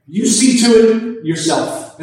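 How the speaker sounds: emphatic You at the start; You stressed, pushing the matter back onto the listener. Retold or imitated. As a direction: lean on the word You. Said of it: "the you there is emphatic".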